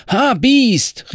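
high, loud angry outcry; cornet shouting. Acted. Thrown rider cursing his horse, loud high cry. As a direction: yell at the horse in outrage. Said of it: "rief er".

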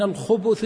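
الخبث voweled with damma on its ب; damma on the middle letter. Shown as a demonstration. Teacher reading out the word from the supplication, damma on الخبث's ب. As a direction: say الخبث with a short u on the ب, khubuthi. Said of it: "بالضم".

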